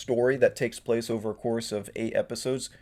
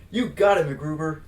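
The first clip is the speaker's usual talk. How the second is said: louder, higher eager reply; eager sidekick; 3 semitones higher, 4 dB louder than usual. Acted. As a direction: snap to it eagerly. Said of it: "Please excuse my bad acting".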